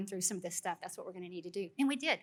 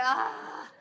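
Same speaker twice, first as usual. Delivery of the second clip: long, raised "ah" of exasperation; exasperated cry; 4 semitones higher, 3 dB louder than usual. Retold or imitated. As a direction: let out a drawn-out frustrated "ah". Exasperated when husband follows her.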